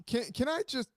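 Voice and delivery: ranting. Real, not acted. Co-host venting about the NBA two-minute report, indignant rant. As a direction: vent emphatically, pausing before the big words. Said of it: "go off on a rant".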